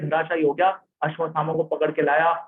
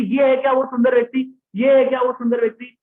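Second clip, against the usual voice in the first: raised, louder wondering question; eager searching; 5 semitones higher, 4 dB louder than usual. Acted. Newborn Parikshit searching every person for the beautiful one, eager raised voice. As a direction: ask each face with eager hope.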